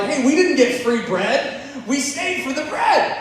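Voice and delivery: high, loud indignant complaint; pissed off. Acted. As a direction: act out a disgruntled crowd, voice climbing. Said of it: "inside they're pissed off".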